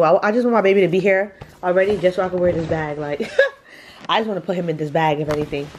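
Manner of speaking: giggling through the words, a bit fast; amused chuckle while talking; laughing. Real, not acted. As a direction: laugh it out at your own silly idea. Laughing at own joke about baby.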